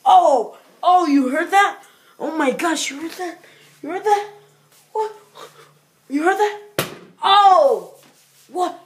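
high panicked yelps; frightened shrieks. Real, not acted. Reacts to sudden noise.

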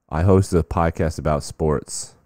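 slow, drawn-out fan voice; slow mock fan pitch. Fan pitching his podcast again, slow mock pride. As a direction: say it like a proud nobody. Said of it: "The guy says to him".

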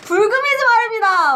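Korean military style. Pretend. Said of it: "군대 말투 따라하지 마시지".

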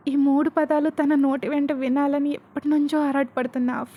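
ordinary delivery

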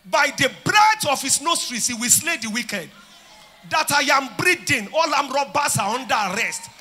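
loud, high fervent declarations; preaching at full force. Real, not acted. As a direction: thunder each arrest at the crowd.

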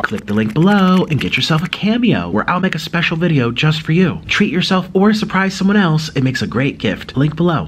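ad read. Acted. Mock Cameo ad read.

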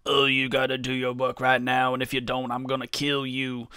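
lightly voiced stern managing director; mock serious boss. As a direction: play at being the serious boss. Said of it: "all serious and all like".

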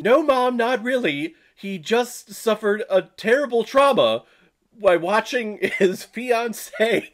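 mock whiny Jeffrey. Voicing Jeffrey answering his mom.

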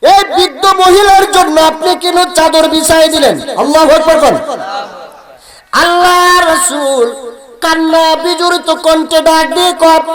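high, ringing sermon voice; full-force preaching. Acted. Preacher telling how companions questioned the Prophet, high preaching. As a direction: project it high to the whole crowd.

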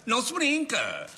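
slowed right down, Não se brinca drawn out as a warning; slow menacing repeat. Acted. Nico repeats his boast to the others, slow and menacing. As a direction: lean on each word of Não se brinca like a threat. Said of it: "o tipo de pessoa que eu sou".

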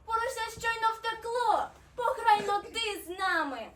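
high, loud snowflake voice; high, teasing character call; merry snowflake. A narrator's reading. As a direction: urge loudly and playfully. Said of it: "засміялася сніжинка".

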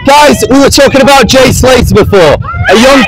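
street preaching. Real, not acted. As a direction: call out to a passing crowd. Preaches to the passing crowd.

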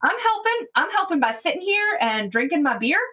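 a touch of defiant bar-side banter; Tiga's retort. Acted. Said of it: "and Tiga's like".

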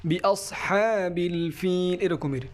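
হ্যাবিল with a small, airy ha; soft breathy ha. Shown as a demonstration. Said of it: "একটা নরম একটা বাতাস বের হবে".

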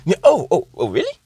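hammed-up foreign captive, high and excited; giddy captive. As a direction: squeal and bargain like a man who can't believe his luck. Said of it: "He goes".

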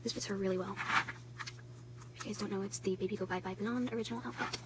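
hushed voice. Real, not acted. Hushed near sick baby.

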